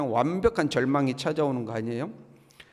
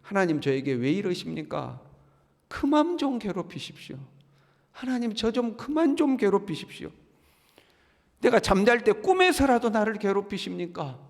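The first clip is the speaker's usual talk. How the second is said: acted high-pitched protest to God; pleading complaint; 4 semitones higher than usual. Job begging God to stop tormenting him, pleading complaint. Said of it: "그 불평의 내용이 이런 겁니다".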